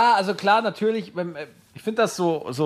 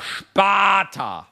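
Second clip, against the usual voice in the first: Sparta shout; 4 semitones higher than usual. Pretend. Shouting the Sparta battle cry.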